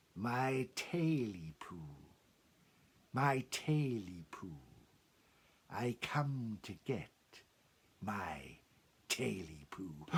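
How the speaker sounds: sinister ancient creature voice, very slow. Telling a scary story, a voice calls from outside the door: sinister ancient voice. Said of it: "a sinister voice, as old as the mountains".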